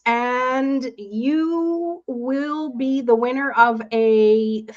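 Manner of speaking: hyped giveaway announcement. Acted. Hosts giveaway spin on livestream.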